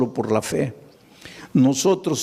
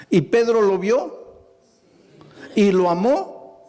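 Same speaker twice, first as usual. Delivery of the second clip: pointed questions; 8 semitones higher than usual. Acted. Preacher's pointed rhetorical questions.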